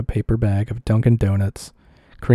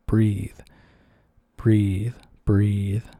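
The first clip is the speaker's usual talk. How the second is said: whispered thought; much slower than usual. Retold or imitated. Thinking while smothered by pillow.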